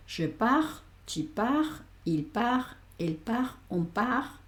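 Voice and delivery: pars and part said par; silent final S and T. Shown as a demonstration. Teacher drills students: pars and part without final T. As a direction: end each pars and part on the R. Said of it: "pronuncio esta T".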